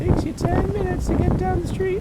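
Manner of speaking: very high, loud mocking voice. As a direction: squeak it out in a shrill mock voice. Mocking repeat in a put-on voice.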